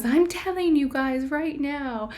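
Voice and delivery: cute cartoon mouse voice; Minnie Mouse voice. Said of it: "the Minnie Mouse voice".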